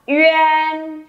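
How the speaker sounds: "uyên" held long on a high level tone; model uyên. Shown as a demonstration. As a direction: say "uyên" as ü sliding into en. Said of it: "đọc là".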